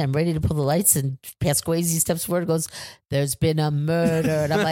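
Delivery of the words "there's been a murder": slowly drawn-out mock stage announcement; theatrical announcement. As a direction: imitate a player stretching the line for drama. Player announces the murder mystery again.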